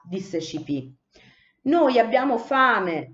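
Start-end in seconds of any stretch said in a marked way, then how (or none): 1.6-3.1 high, loud, slow wail of Noi abbiamo fame; whining cry. A narrator's reading. Young sparrows begging Cipì to let them eat, wailing. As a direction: plead for food like crying chicks. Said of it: "piangevano i giovani passeri".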